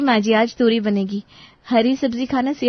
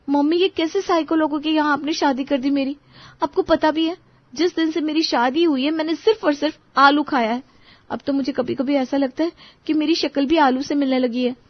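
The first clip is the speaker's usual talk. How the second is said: exasperated complaint; 5 semitones higher than usual. Acted. Daughter complains to mother on phone.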